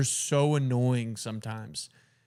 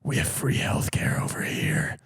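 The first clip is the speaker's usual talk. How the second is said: hoarse whispered Batman rasp; a whispery Canadian Batman. Retold or imitated. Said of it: "Canadian Batman".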